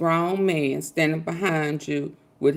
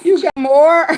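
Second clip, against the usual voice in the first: laughing call-out; 9 semitones higher, 7 dB louder, slower than usual. Real, not acted. Calling out, laughing.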